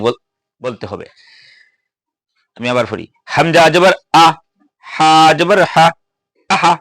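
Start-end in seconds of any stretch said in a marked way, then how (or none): 3.3-5.9 Qaida spelling drill. Shown as a demonstration. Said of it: "এভাবে তাড়াতাড়ি". 6.5-6.7 আহা said fast and run together; quick joined syllables. Shown as a demonstration. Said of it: "এভাবে তাড়াতাড়ি".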